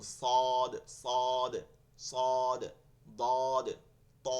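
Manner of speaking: "সদ", "দদ", "ত" thick, loud and drawn out; heavy letters. Shown as a demonstration. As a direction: give "সদ", "দদ", "ত" a full heavy sound. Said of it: "দেখেন মোটা কিন্তু".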